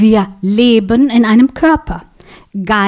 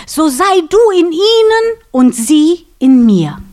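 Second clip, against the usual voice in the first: lightly voiced earnest prayer, higher; Jesus praying; 4 semitones higher than usual. Preacher voices Jesus praying to God, a lightly higher plea. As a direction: plead it upward to the Father, a hint of Jesus. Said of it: "hat Jesus zu Gott gesagt".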